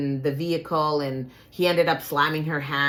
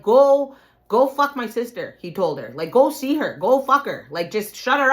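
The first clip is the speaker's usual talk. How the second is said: pushy brother; 6 semitones higher, 5 dB louder than usual. Retold or imitated. Brother pushing her on Kevin.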